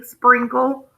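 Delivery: "sprinkle" with a long ee, spreenkle; the everyday spreenkle sound of "sprinkle". Shown as a demonstration. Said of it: "like it's an E".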